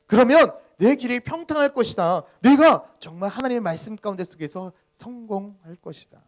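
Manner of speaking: high, loud proclamation; God promising forcefully. Acted. Pastor voicing God's promise to the people, forceful proclamation. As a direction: declare the promise at full force. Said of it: "하나님께서 우리들에게 분명히 이렇게 이야기하잖아요".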